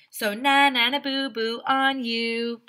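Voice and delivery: sing-song na na boo boo; teasing taunt. Acted. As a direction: taunt the reader playfully, loud and slow at the end. Taunting the reader.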